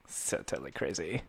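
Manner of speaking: hushed, mock Valley Girl murmur. Friend teasing another's overuse of like, mock valley girl. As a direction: lightly put on a soft Valley Girl voice. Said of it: "Like a Valley Girl?".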